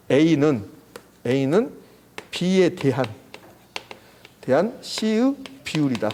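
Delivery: slow, segmented model reading; reading demonstration. Shown as a demonstration. Teacher writing out how to read the fraction, slow reading demonstration. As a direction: say it phrase by phrase, pausing between chunks. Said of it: "이렇게 하는 거예요".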